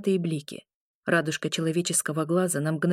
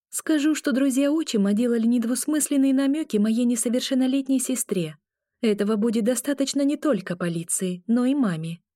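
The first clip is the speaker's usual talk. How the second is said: threatening; 5 semitones higher than usual. Acted. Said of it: "пригрозила я".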